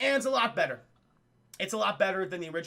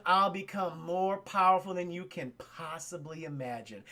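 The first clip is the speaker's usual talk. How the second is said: solemn Obi-Wan quote; 3 semitones lower than usual. Retold or imitated. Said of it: "Ben Kenobi's, like, saying".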